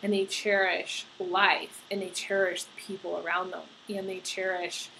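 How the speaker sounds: fighting back tears as you speak; moved, softening to near silence; getting emotional. Real, not acted. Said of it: "I'm getting emotional".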